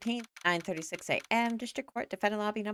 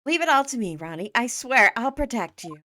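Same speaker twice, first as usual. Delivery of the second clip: much higher and louder, gushing with a French bonjour; doting wife; 6 semitones higher, 6 dB louder than usual. Acted. Desirée greeting her husband Ronnie, high and doting. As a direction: coo like an adoring over-the-top wife.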